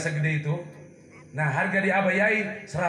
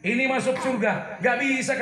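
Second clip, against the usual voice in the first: mildly raised voice of protest; 5 semitones higher than usual. Acted. Preacher voicing tears objecting to a verdict, mild protest. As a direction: object firmly, as an acted complaint. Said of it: "air mata itu protes".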